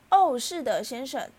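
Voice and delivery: earnest, high and loud elf voice; Dobby. A narrator's reading. House-elf answering Harry's question, high and earnest. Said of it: "多比诚挚地表示".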